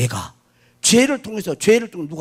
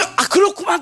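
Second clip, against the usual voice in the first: Jeolla dialect; 12 semitones higher than usual. Shown as a demonstration. Preacher mimicking a Jeolla speaker's casual reply in dialect. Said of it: "전라도".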